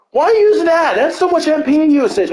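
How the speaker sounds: high-pitched mock criticism; incredulous objection. Teammates to cleric about costly spell, incredulous objection.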